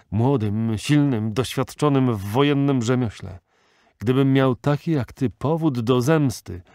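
put-on old sheikh gripping Ben-Hur's arm, passionately urging vengeance; fierce old sheikh. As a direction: build to a fervent plea. Ilderim urges vengeance.

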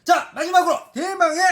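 hyped giveaway announcement. Real, not acted. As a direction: build up the final reveal. Building to final winner.

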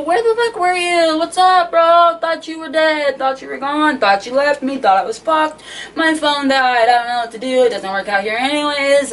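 high, loud outburst easing off; acted frantic scolding; retold yelling. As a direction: launch into a reunion tirade, then let it sink. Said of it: "We start yelling at each other".

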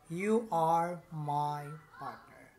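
slow, careful read-back of the sentence; slow reading aloud. Shown as a demonstration. Teacher reading the answer slowly to the class, slow read-aloud. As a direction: say it slowly so the class can follow. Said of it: "we're going to read it again".

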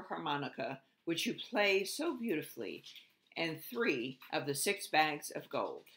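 lightly voiced formal royal address; a touch of a pompous king; solemn king's speech. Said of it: "said solemnly".

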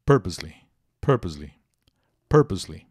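"Purposely" with a firm PUR, falling after it; "Purposely" as a model word, PUR-pose-ly; stressed first syllable. Shown as a demonstration. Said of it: "A sílaba tônica é a primeira".

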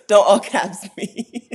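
sassy don't-shout-at-me warning; mock scold. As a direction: tell them off playfully. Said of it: "I will actually say that out loud".

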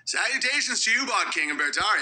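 put-on lightly old-fashioned formal greeting; hint of an old-timey announcer. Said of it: "I'm doing the old-timey voice".

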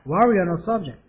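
slowed down, each word clear; slow careful repeat. Shown as a demonstration. Teacher repeating the phrase slowly for students. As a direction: model it slowly for learners. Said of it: "해보세요".

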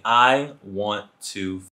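slow, low, blunt come-on. Retold or imitated. A date bluntly propositioning the storyteller, slow and blunt. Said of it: "proceeds to say bluntly".

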